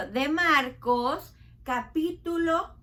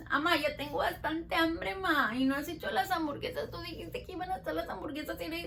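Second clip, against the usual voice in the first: put-on hungry child. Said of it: "¿cómo empieza el niño?".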